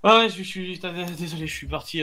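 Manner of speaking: breathless after rushing back; out of breath. Real, not acted. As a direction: talk while catching your breath. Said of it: "je vais reprendre mon souffle".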